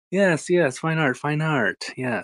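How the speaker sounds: fine art voice. Acted. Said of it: "I gotta come in here with the whole fine art".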